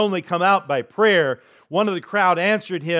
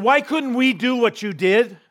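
puzzled question; 8 semitones higher than usual. Retold or imitated. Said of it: "they said".

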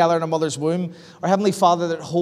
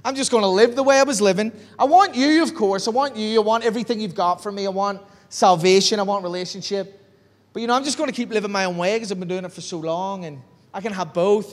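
arrogant past self. Retold or imitated. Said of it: "I was so arrogant when I got saved".

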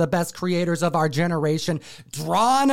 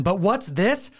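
dramatic reveal; slower than usual. Acted.

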